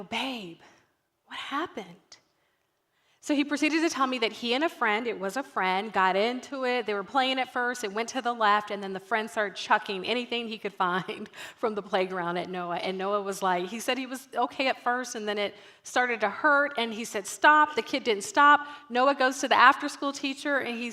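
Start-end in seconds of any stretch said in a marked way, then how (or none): 0.0-2.2 soft, gentle mom question; lowered voice. Retold or imitated. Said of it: "I lower my voice". 17.3-17.8 put-on higher, louder child's "stop"; retold protest. Child telling friend to stop.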